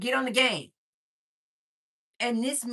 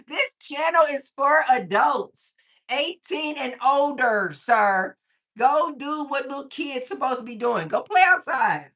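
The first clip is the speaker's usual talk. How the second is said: mock scolding; 3 semitones higher, 5 dB louder than usual. Host sending an underage viewer outside, mock scolding. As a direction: playfully order a kid away, loudly.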